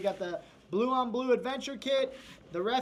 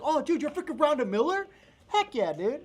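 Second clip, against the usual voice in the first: higher, louder laughing excitement; starstruck; 6 semitones higher, 5 dB louder than usual. Retold or imitated. Cohost retelling meeting Rhonda Miller, laughing and excited. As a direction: react like meeting a celebrity. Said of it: "I was like".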